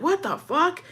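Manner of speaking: high-pitched, outraged disbelief; heated retold reaction. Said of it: "He was heated too".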